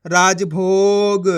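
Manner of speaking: राजभोग very slow, long भो; blended word reading. Shown as a demonstration. Teacher showing what the letters make, slow blending. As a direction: draw राज-भोग out as one word. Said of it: "तो मिलके बन जाएगा".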